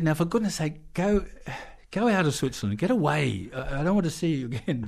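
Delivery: high, mock shooing; hammed-up get-out-of-here; mock exasperated Menuhin. Menuhin sending the smoky driver out of Switzerland, high and mock exasperated.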